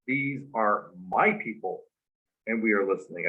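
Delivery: measured statement with emphasis on "my"; stress on MY. Shown as a demonstration. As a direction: weigh each word, leaning on "my". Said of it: "this is the key. It's what I said".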